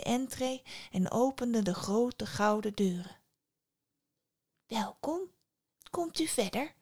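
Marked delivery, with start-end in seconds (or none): 4.7-6.7 light, soft, lifted welcome; friendly voice. A narrator's reading. Unseen voice welcomes Psyche into the palace, friendly. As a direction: invite the guest in kindly. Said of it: "klonk een vriendelijke stem".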